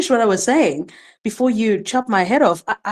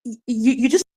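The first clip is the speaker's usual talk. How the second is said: indignant; 6 semitones higher than usual. Real, not acted. Outraged at being dismissed.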